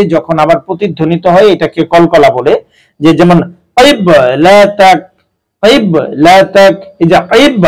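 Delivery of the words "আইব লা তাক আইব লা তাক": আইব with an echoing bounce on ব; qalqala bounce. Shown as a demonstration. Teacher shows Quran readers the echoing qalqala. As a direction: slowly bounce the ব in আইব so it echoes. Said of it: "এটাকেই বলে কলকলা".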